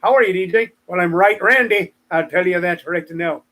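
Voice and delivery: lightly faked Irish accent; hammy amateur Irish accent; bad Irish accent. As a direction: have a go at shoddy Irish banter. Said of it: "did that in a shitty Irish accent".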